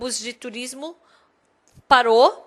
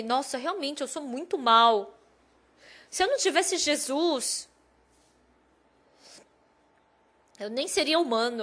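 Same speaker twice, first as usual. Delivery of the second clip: soft, remorseful self-reproach; inner reflection; 6 dB quieter than usual. Retold or imitated. Pastor admitting to himself he was wrong, softly remorseful. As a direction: think it aloud softly, owning the fault. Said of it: "Dentro do meu coração, eu pensei".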